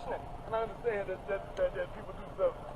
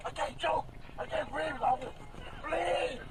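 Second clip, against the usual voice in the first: distressed pleading; 5 semitones higher, slower than usual. Real, not acted. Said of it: "he's clearly already quite distressed".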